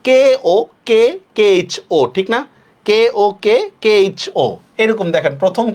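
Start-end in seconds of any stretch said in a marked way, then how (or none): 0.1-2.0 K O K K H O in separate, even letters; spelling out. Shown as a demonstration. Teacher showing the Banglish spelling, spelling out firmly. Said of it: "বাংলিশে যদি লেখেন". 2.8-4.4 কে ও কে K H O in separate, even letters; spelling out. Shown as a demonstration. Teacher showing the Banglish spelling, spelling out firmly. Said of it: "বাংলিশে যদি লেখেন".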